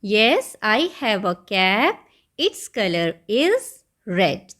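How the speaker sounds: very slow, word by word, like reading to a class; careful classroom reading; slow read-aloud answer. Shown as a demonstration. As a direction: read the model answer out slowly for the children. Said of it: "यहाँ पर answer लिखा है".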